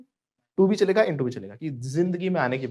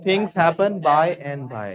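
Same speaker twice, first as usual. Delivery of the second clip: slow class drill; 5 dB louder, much slower than usual. Shown as a demonstration. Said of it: "क्या बोलेंगे everybody?".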